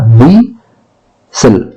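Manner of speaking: व्हिसल drawn out slowly; slow demo. Shown as a demonstration. Teacher models व्हिसल for students, slowly. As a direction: stretch व्हिसल to show the silent t. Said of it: "व्हिसल, तो क्या होगा".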